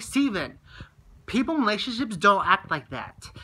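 retold exasperated telling-off; pissed off. Telling Steven off about how people in relationships act, pissed off. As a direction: retell an annoyed lecture to a friend. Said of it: "it really pissed me off".

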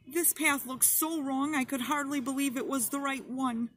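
put-on a frightened girl sobbing to her Lord. A narrator's reading. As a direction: sob out the plea while clinging to him. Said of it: "she sobbed out".

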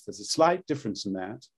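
put-on old posh stage British; classic RP accent. Shown as a demonstration. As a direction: demo "slight difference" in plummy classic RP. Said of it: "the classic is a little bit more like this".

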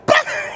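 high mock burst of scornful laughter; scoffing outburst. Realtor hearing a one-dollar offer, mock scoffing outburst. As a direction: splutter as if at a ridiculous offer.

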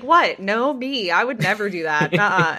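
a touch of hammed-up "who, me?"; mock innocence. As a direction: play it lightly scandalised, denying everything. Cousin asks, Luna feigns innocence.

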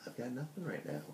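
sleepy yawn through words; words stretched by a yawn. Real, not acted. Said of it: "Sorry, I've been yawning a lot".

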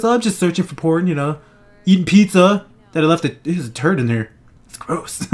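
lightly voiced creepy old man; a hint of creepy old man. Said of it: "creepy old man voice".

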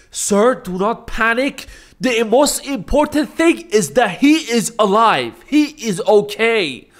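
mock-formal high reassurance; reassuring lady. Lady calming his dad.

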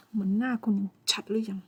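normal talking voice

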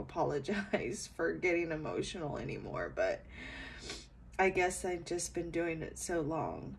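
real tears close, voice catching; choked up while apologizing; emotional. Real, not acted. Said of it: "I don't mean to get so emotional".

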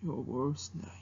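low, very soft mock menace; Mushu. Dragon echoing worst nightmare, low and very soft impersonation. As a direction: let the threat sink away, hushed and deep. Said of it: "doing an impersonation of Mushu".

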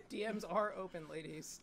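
muffled closed-mouth speech; talking with mouth closed. Shown as a demonstration. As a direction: keep the lips sealed. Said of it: "talk without opening your mouth".

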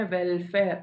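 വെൽഫെയർ weighted on "വെൽ"; stress on first syllable. Shown as a demonstration. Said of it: "വെൽ ആണല്ലോ".

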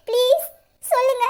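a short sobbing please; whimpered plea while crying. Acted. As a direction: beg through tears. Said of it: "இவ அழுகுறாளே".

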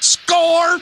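excited cheer. Acted. Found DVDs on eBay.

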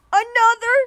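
loud, slow, drawn-out groan of annoyance; exasperated yell. Real, not acted. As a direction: yell it out, fed up with the sheep. Annoyed at sheep in game.

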